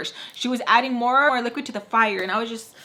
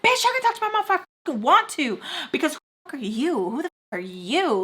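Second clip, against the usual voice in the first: much higher, fast retold tirade; furious retort; 6 semitones higher, faster than usual. To the staff woman, a fast high furious comeback. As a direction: fire it back at her, fast and high.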